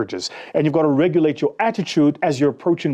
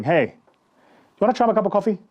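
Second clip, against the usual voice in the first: bright, keen offer of coffee, higher; upbeat sales pitch; 4 semitones higher than usual. Retold or imitated. Salesman offering coffee to a stranger, still keen. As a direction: still selling with a smile.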